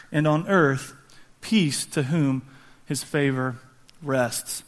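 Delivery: unhurried reading from the pulpit; scripture reading. Acted. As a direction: read the passage solemnly with pauses. Reads scripture aloud from Luke.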